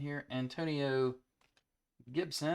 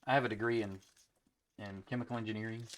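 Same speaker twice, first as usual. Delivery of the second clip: fast, nerdy know-it-all voice; nerd voice; 4 dB quieter, faster than usual. Pretend. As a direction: rattle it off like a proud nerd. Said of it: "I made my nerd voice".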